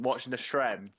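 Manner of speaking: stream said with a short e, "strem"; Jake's way. Retold or imitated. Teasing a friend about watching the stream, Jake's way. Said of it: "That's how Jake says it".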